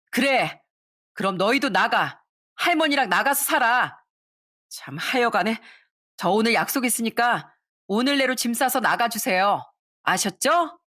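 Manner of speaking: matter-of-fact, dismissive demand; cold eviction. Acted. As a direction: tell her to leave without pity. Daughter-in-law coldly dismisses. (시어머니를 내쫓는 며느리의 냉정한 말투)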